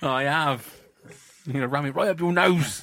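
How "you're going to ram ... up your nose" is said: loud put-on Cockney accent. Joking about a big tool with the others: put-on cockney accent. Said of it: "But now, for some reason, it's Cockney".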